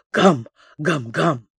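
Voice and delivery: a madman playing a dog, half-hearted; mock barking. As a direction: bark it out like a dog, lightly. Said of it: "а я на них лаю". (лёгкое собачье «гам, гам»)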